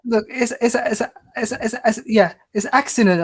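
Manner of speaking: light attempt at a Somali accent. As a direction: play it as a Somali uncle with a Somali accent. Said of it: "Is that Somalian?".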